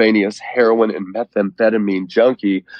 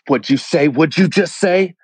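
sharp, higher demanding question; officer in his face, demanding and higher; 7 semitones higher than usual. Retold or imitated. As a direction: press him, pitch climbing on the repeat.

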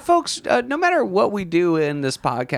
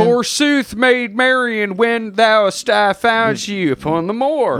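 mock English accent; 5 semitones higher than usual. Mocking Costner's English accent in Robin Hood. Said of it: "an English accent".

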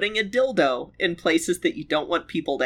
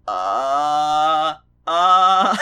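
long hesitant "uh", swelling louder the second time; drawn-out baffled "uh"; 3 semitones lower, 6 dB louder than usual. Acted. Guest reacting to people leaving doors unlocked, baffled drawn-out uh. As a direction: stammer a stretched, dumbfounded "uh".

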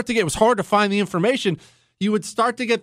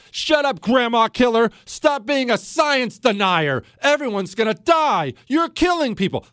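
mocking accusers; 4 semitones higher than usual. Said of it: "That's what I was told".

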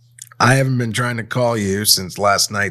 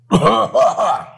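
loud put-on cough; fake cough; 12 semitones higher, 5 dB louder than usual. Shown as a demonstration. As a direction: cough theatrically to fake illness. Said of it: "fakes a cough in the directions".

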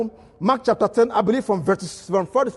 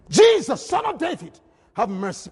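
Bartimaeus crying out; 3 semitones higher than usual. Acted. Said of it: "he began to cry".

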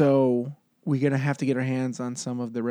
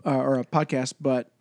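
talking between burps; words held back by burps; burping after fizzy drink. Real, not acted. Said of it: "Sorry, I'm burping like crazy too".

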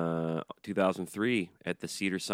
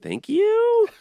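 very high squeaky falsetto thanks; tiny cartoon falsetto thank-you; falsetto squeak; 11 dB louder than usual. Falsetto joke reply.

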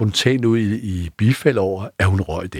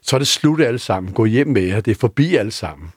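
higher, raised mock shout to the whole pub; calling out to the bar; 3 semitones higher than usual. Narrator calling closing time to the rowdy pub, raised voice. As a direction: try to shout the room closed. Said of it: "så råber jeg ud over hele værtshuset".

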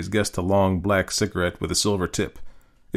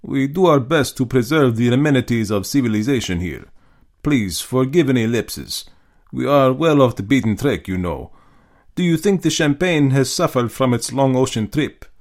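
half apologetic; 4 semitones higher, 3 dB louder than usual. Acted. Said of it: "Half apologetically".

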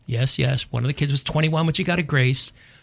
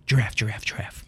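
put-on child's giraffe noise; 4 semitones lower than usual.

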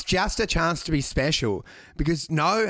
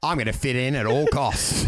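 low-pitched mock Australian accent; comically low Aussie voice; put-on Australian accent; 6 semitones lower than usual. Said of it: "how quickly she changes codes".

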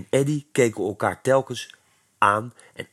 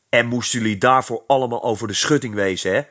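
mildly threatening, fast and a bit louder; 4 dB louder, faster than usual. Acted. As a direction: lean on them with a mild threat. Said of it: "vroeg hij dreigend".

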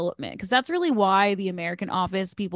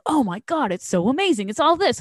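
mock gushing, higher pitched; gushing hype; 4 semitones higher, 3 dB louder than usual. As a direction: imitate everyone raving about a show. Mimicking everyone's hype about a show.

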